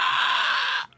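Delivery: pterodactyl shriek. Pretend. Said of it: "That's my pterodactyl noise".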